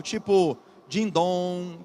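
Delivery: slow ringing ding-dong; imitated bell. Shown as a demonstration. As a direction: let the nasal ending ring like a bell. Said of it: "O som que tenta imitar algo".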